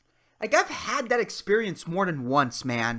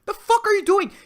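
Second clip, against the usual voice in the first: mock angry retort; 4 dB louder than usual. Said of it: "It's like".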